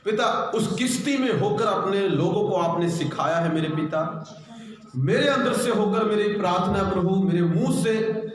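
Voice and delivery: fervent pastor's prayer; earnest Hindi church prayer. Acted. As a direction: pray over the congregation, pleading. Opening prayer before the word.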